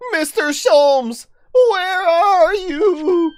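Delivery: high, slow, loud laughing call. Acted. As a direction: call across a distance, laughing. Calling out to distant Sholmes.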